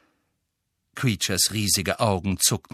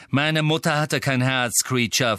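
higher, sharp angry retort; snarling; 5 semitones higher, 3 dB louder than usual. A narrator's reading. Master snarling about his heartless mother, angry. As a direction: lash back at the elf. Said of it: "fauchte Sirius".

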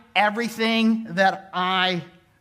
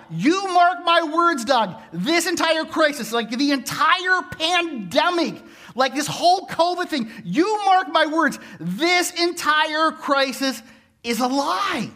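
mock angry emailer; 5 semitones higher than usual. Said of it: "This is sort of the gist of the email".

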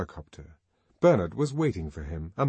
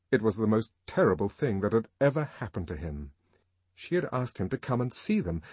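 plain reading voice

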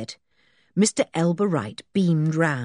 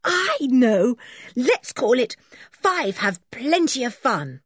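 higher, bold tomboy voice; lightly voiced George; 9 semitones higher, 3 dB louder than usual. George naming the book, proud and bold. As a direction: announce the title proudly.

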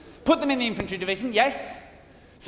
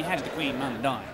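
mocking an Aussie friend; 8 semitones lower, 5 dB quieter than usual. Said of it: "You know how he talks".

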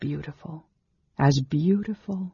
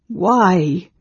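loud, higher, pleading; anguished cry; 4 semitones higher, 7 dB louder than usual. A narrator's reading. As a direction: cry it out in grief. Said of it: "Carol cried".

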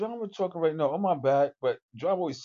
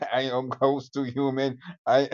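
humanlike AI voice; 3 semitones lower than usual. Pretend. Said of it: "that's why I talk like this".

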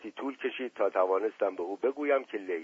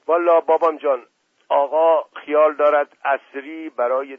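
put-on broad Isfahani servant accent, raised; 3 semitones higher, 5 dB louder than usual. Mash Qasem's lines in the story.

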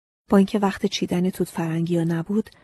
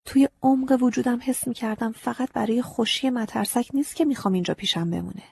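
ordinary delivery

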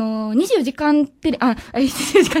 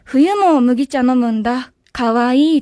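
slow, lower, deadpan delivery; serious voice; 4 semitones lower, much slower than usual. Shown as a demonstration. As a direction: model the line in an earnest low voice. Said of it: "真面目な声で言ったらシュールなんじゃないかな". (真面目な声で、低めにゆっくり)

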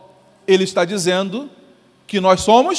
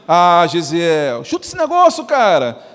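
slow, rising, louder mock taunt by name; lightly hammed-up devil egging him on; 3 dB louder, slower than usual. Pastor voicing the devil urging Gesiel to quit, mock taunt. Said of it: "se ele falasse assim".

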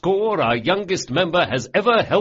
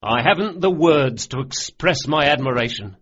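higher and louder, with STUPID and IDIOTIC spiking high; mock scolding; 8 semitones higher, 5 dB louder than usual. A narrator's reading. Locke praising Bug through mock scolding, exasperated. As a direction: scold him in mock outrage that is really praise.

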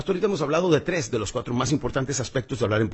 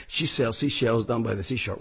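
pen in mouth; 2 semitones lower than usual. Shown as a demonstration. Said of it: "lo debemos de hacer con diferentes cosas".

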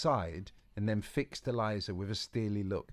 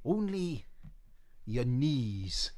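Boris; 3 semitones higher, much slower than usual. Acted. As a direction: snap back with dignity. Boris voiced.

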